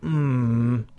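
closed-mouth mm hum; nonverbal hum. Shown as a demonstration. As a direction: hum a short mm. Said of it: "I've used my voice in three different ways".

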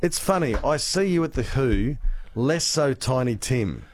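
normal talking voice

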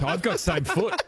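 lightly voiced cassowary; cassowary impression. Comedian mimics an online cassowary for laughs, lightly voiced bird. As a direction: do a hint of a talking cassowary. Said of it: "that's my cassowary impression".

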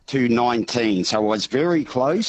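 hoarse, strained voice; croaky voice. Real, not acted. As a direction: talk through a voice lost from cheering. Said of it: "I am croaky".

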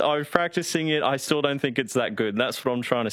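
put-on Cockney, starting high and settling; Cockney accent. Producer defending his requested impression to the host, Cockney accent. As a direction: protest in a mock Cockney accent. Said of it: "was he not happy with your Cockney accent".

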